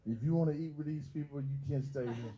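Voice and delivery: scornful laughing words; mama laughing loudly at the idea; mother laughing out loud as she lets her son stay; loud mocking laugh. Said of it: "like, loud".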